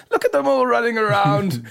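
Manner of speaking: high, loud, mocking God laugh; cackle, then crow with glee; gleeful cackle. God watches people flee burning building, gleeful.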